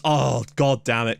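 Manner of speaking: slow, drawn-out exasperation; frustrated curse. Real, not acted. Gamer conceding from a corner, exasperated. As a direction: groan the curse out slowly.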